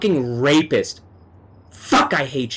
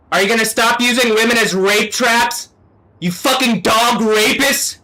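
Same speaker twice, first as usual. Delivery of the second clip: raised, higher, hammering accusations; real angry ranting, a bit higher; 4 semitones higher than usual. Real, not acted. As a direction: yell at them as if they can hear. Ranting at demons, calling out.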